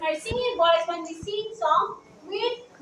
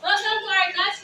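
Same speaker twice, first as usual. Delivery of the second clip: loud voice. Shown as a demonstration. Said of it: "using loud voice".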